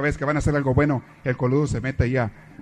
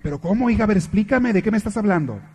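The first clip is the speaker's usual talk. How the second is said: higher and louder, insisting mother; worried mother; 6 semitones higher, 4 dB louder than usual. Acted. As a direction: press her daughter for answers. Mother questioning daughter.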